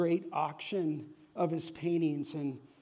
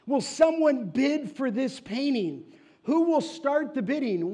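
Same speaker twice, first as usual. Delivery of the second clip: higher, louder auctioneer calling out to the room; 7 semitones higher, 7 dB louder than usual. Acted. The auctioneer calls to a silent crowd, higher and louder. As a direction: push the room for a bid, voice up.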